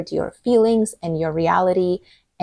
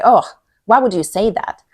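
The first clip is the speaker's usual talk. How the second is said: pointed, louder accusing question with a rising oh; 3 semitones higher, 6 dB louder than usual. Shown as a demonstration. Showing a friend the wrong way, accusing tone. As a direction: ask it like you're calling them out. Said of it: "in a way that guaranteed the other person is going to be defensive".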